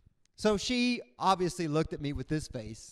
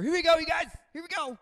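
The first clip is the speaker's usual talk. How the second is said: resigned doomed pilot; 12 semitones higher, 5 dB louder, faster than usual. Retold or imitated. Pilots' final moments.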